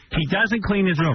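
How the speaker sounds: high, slow, laughing complaint; hammed-up griping dad; mocking dad. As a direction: whine it like a fed-up father. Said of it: "they would discuss in front of me".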